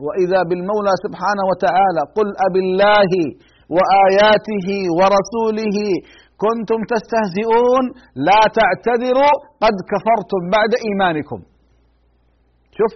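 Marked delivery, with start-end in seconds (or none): 2.2-11.4 measured, drawn-out verse recitation; slow Quran recitation. Acted. Preacher reciting the verse to his congregation, slow and grave.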